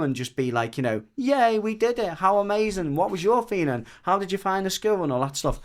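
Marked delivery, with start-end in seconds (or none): 1.1-5.0 high, bubbly and cheerful; squealing happy congratulations; excited celebration. Pretend. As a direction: gush like you just finished something big. Imagined celebration with her partner.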